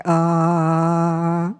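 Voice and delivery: a plain throaty "Ah" from the back of the throat. Shown as a demonstration. Teacher shows the class the everyday voice, throaty "Ah". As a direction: sing "Ah" from the throat, no chest. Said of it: "it would come out like".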